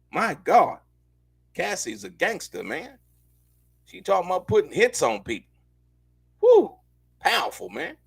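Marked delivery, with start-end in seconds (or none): 6.4-6.8 loud high-pitched woo of amazement; high whoop. Real, not acted. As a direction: let out a stunned whoop. Reacts to quote.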